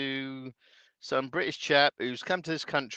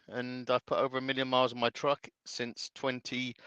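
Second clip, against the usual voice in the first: speaking through hiccups; words broken by hiccups; 5 dB quieter than usual. Real, not acted. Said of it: "I've got the hiccups".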